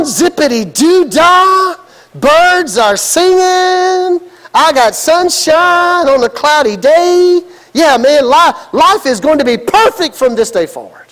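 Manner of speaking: hammed-up, sing-song bliss; mock giddy joy. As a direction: play the naive new convert, carefree. Mocking naive post-conversion bliss.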